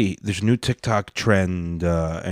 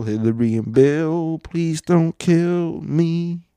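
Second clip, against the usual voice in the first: higher mock plea; 6 semitones higher, slower than usual. Repeated plea to the Clintons.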